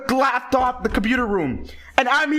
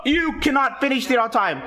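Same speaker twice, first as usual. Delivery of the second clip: rising, higher mock accusation; mock angry teacher; 5 semitones higher than usual. Imitating the teacher accusing the kid, higher and rising. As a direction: spit it out like a furious teacher. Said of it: "So they're like".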